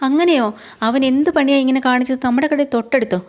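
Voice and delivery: wife shocked that the shop is right next door. Retold or imitated. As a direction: react to the betrayal with disbelief.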